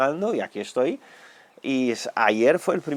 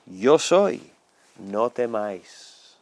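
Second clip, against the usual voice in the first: slow, calm reassurance; lightly voiced Jesus calming his friends; reassuring Lord. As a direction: comfort frightened disciples, unhurried. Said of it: "habló con ellos y les dijo".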